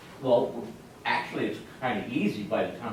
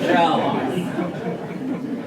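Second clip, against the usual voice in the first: laughing; 5 semitones higher, 9 dB louder, much slower than usual. Real, not acted. Fond memory, laughing.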